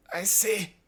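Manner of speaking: high-pitched put-on sneer; mock sneering professor. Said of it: "he sneered".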